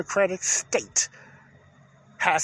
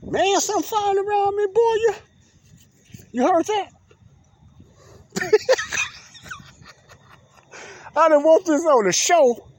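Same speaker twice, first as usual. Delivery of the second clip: shaken, higher and louder, still rattled; real fright; 8 semitones higher, 4 dB louder than usual. Real, not acted. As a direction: talk right after a bug swoops at you, still jumpy. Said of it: "that scared the daylights out of me".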